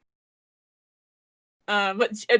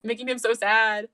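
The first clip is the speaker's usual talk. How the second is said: retold upset plea; 4 semitones higher than usual. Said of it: "she's like, so upset".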